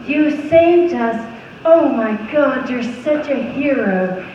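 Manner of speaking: mock-heartfelt gratitude, drawn out at the end; hammed-up TV-movie gushing; emotional Hallmark heroine. Hallmark character thanking her rescuer, melodramatically emotional. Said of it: "emotional, like, connections and feelings".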